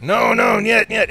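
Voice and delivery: high, loud panicked protest; acted-out alarm; alarmed refusal. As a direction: refuse urgently, voice jumping up. Acts out refusing the operating room.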